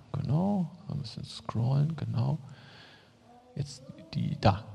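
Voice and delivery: quick voiceless aside to the tech; whispered aside. Real, not acted. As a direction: whisper it off-mic to the helper. Aside to the tech about scrolling. (geflüstert, kurz zum Techniker)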